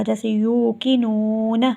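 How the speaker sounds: यूकिनून with long ū, drawn out; correct long yu. Shown as a demonstration. Teacher to students, यूकिनून with a long ū. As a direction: stretch the ū in यूकिनून. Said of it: "इसको यू की नून नहीं पढ़ेंगे".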